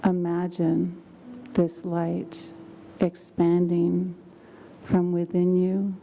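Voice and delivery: calm, slow meditation voice; guided meditation. Acted. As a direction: guide them gently into calm.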